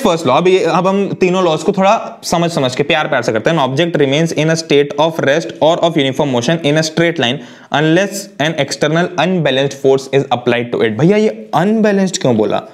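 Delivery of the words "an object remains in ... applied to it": reciting the definition word by word, very slowly; slow law recital. Acted. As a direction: read it out like a textbook line, slowly. Recites Newton's first law. (धीमे-धीमे परिभाषा पढ़ना)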